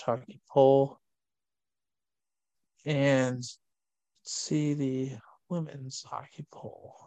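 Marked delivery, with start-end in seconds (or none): 2.8-7.0 soft unvoiced aside, almost secret; whisper. Real, not acted. Host whispering the switch to the women's poll. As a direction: lean in and whisper the segment change.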